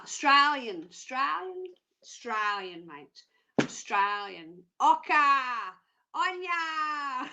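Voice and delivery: put-on playful broad Aussie accent; hammed-up Australian accent. Host insisting she won't convert, mock-broad Australian accent. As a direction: lay the Australian on thick. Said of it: "I'm Australian".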